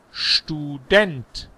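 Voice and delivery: "Student" drawn out, stress on DENT; German stress. Shown as a demonstration. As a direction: lean on the last syllable of "Student" after a clear sch. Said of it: "die Betonung nicht Englisch".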